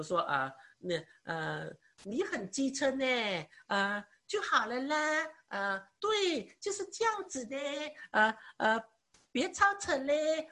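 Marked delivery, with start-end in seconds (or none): 2.0-10.5 coquettish Taiwanese talk. Shown as a demonstration. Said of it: "台湾人他们讲话很喜欢加上那个".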